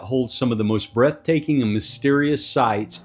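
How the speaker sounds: dramatic narrator intro read; documentary voiceover. Acted. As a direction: build mystery like a trailer. Narrated intro voiceover over music.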